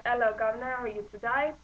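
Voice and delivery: lightly put-on British accent; a hint of a cheery-greeting British accent. Shown as a demonstration. Actor's warm-up line to find the accent, light British accent. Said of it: "I always have to start with".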